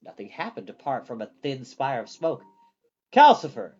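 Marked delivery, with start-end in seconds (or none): 3.1-3.7 loud call of the name; shout. A narrator's reading. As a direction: shout to wake the fire demon. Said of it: "Hal shouted".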